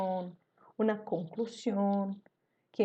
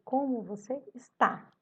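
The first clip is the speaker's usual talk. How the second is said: "Como você está?" said as a question, pitched up on "Como"; tom de pergunta; 3 semitones higher than usual. Shown as a demonstration. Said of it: "Pra fazer uma pergunta". (entonação de pergunta em "Como você está?")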